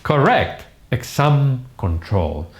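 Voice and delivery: "correct", "exam", "control" each stressed on the last syllable; correct pronunciation. Shown as a demonstration. Teacher repeating words for students, correct pronunciation. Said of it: "So again".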